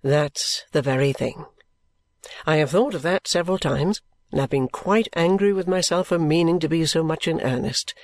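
low, measured character voice, almost grave; earnest Richard. Acted. Richard confessing his lack of constancy, almost grave.

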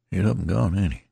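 a folksy soldier asking half to himself; lightly voiced rough soldier; tattered soldier, musing. Tattered man over the corpse.

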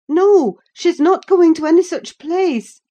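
loud, high desperate protest; crying out. Acted. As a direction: struggle and cry out no. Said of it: "I cried".

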